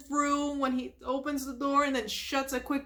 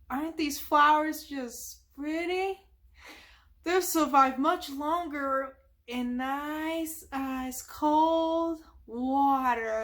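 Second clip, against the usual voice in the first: Sandy's sweet voice; 3 semitones higher, slower than usual. Retold or imitated. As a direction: coo each word out slowly, a touch sing-song. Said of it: "because she's like".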